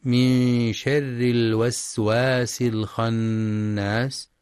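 very slow tajweed recitation; Quran recitation. Shown as a demonstration. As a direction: recite slowly, every letter clear. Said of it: "وفي قوله تعالى". (تلاوة مجودة بطيئة جدا)

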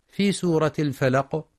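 ordinary delivery

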